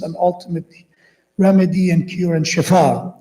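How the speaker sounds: earnest prayer voice, pleading; preacher closing the gathering with a dua; supplication. Acted. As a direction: lead the congregation in a heartfelt dua. Closing supplication after the majlis.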